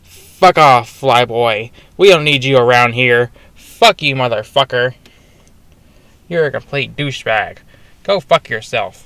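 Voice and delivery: hammed-up insults, slowing at the end; rude Holdo quote. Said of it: "this is literally what, what she says".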